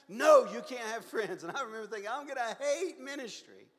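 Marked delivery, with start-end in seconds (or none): 0.1-1.4 slow, much louder flat refusal; the teacher booms it down, slow and firm; stern loud no. Retold or imitated. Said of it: "I can't have any friends". 2.1-3.7 laughing dread. Retold or imitated. Laughing at his old dread.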